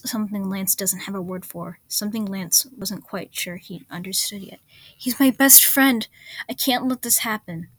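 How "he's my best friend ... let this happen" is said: high, loud cry of despair; anguished shout. A narrator's reading. Lance pleads with Axa for Keith, a high loud anguished cry. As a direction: cry out your best friend, breaking.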